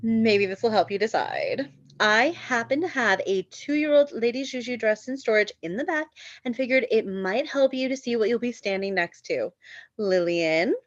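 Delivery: a smug, knowing offer; snooty shop owner. Acted. Saleswoman tempting the bride's friends, lightly snooty.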